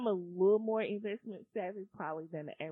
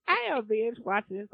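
laughing; 6 dB louder than usual. Real, not acted. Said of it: "I don't even wanna laugh".

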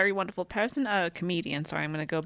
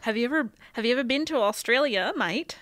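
mock Australian accent; 3 semitones higher than usual. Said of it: "my very convincing accent".

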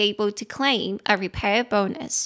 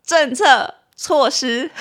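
laughing; 6 semitones higher, 6 dB louder, much slower than usual. Real, not acted. Still laughing after the slip.

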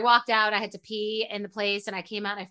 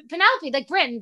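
awkward nervous mom; 5 semitones higher, 4 dB louder than usual. Retold or imitated. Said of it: "I fully choked".

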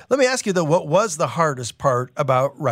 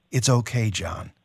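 calm reassurance; 2 semitones lower than usual. Acted. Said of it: "Jesus says, a hand on his arm".

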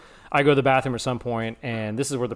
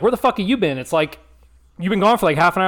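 mildly annoyed, higher-pitched scolding; mock scolding, raised and louder; retold mad date; 5 semitones higher, 3 dB louder than usual. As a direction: imitate an angry date demanding answers. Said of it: "So she was mad".

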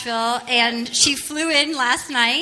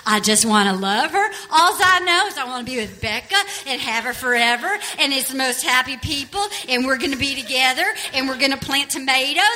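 lower, dim-witted lovesick voice; Of Mice and Men voice; 4 semitones lower than usual. Retold or imitated. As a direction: play it like a simple gentle giant. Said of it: "he's like of Mice and Men".

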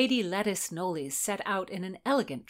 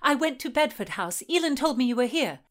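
panting; 5 semitones higher, 4 dB louder than usual. Acted. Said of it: "panting hard as she spoke".

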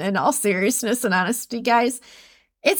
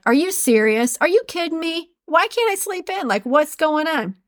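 higher, whiny disbelief at waking early; mock exasperated; 6 semitones higher than usual. Listener waking at five thirty, exasperated. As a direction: whine it in disbelief. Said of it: "you're like".

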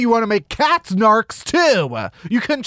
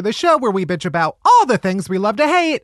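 mock British accent; 4 semitones higher than usual. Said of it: "I'm doing it in my native British tongue".

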